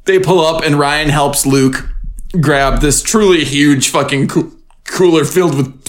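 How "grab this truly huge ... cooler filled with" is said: talking through hiccups; hiccupy speech, catching on words. Real, not acted. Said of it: "sorry, I've got the hiccups".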